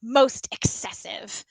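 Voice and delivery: drawn out, weighing each word; savouring a big vocabulary word, slowly; slow vocabulary read. Shown as a demonstration. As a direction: relish the fancy words. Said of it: "another great vocabulary word here".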